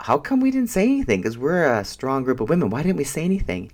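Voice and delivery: high, loud disbelief at themselves; incredulous. Retold or imitated. Friends puzzled after walking away.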